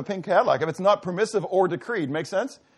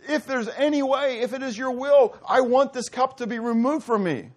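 anguished plea; 2 semitones higher than usual. Retold or imitated. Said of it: "he cries out to the Father".

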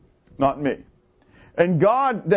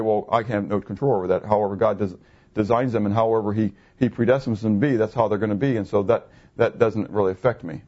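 mock excuse; 9 semitones lower than usual. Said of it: "try to get past that one ... and say".

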